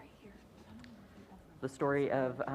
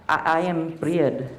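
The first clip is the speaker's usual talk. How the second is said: declaring; 5 semitones higher, 4 dB louder than usual. Acted. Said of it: "the girl declared".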